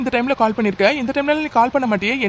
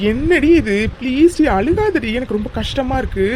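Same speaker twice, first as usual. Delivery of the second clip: distressed pleading; 3 semitones higher than usual. Acted. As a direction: beg her to stop crying. Pleads with her to stop crying. (கெஞ்சும் குரலில்)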